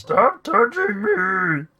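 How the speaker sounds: high, loud, slow whine; annoyed unit clicked too often; exasperated poked game character. Acted. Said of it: "Stop clicking me".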